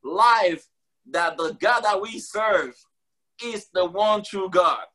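preaching boldly, live; bold proclamation. Real, not acted. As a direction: declare it boldly to the whole room. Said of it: "I am saying it right now boldly".

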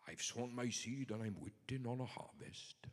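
put-on a light Welsh accent for God's words; token Welsh accent. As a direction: lilt it like a Welsh preacher, lightly. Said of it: "That's a token Welsh accent for you".

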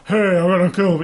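lightly put-on tough-guy voice; half-hearted swagger of a tough guy; mock tough guy. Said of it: "you know, tough guy".

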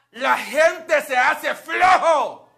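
slow, loud, laughing proclamation; mock loud cry. Preacher to congregation, loud slow laughing call. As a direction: drag out flojo with a laugh. Preacher mocking lazy people.

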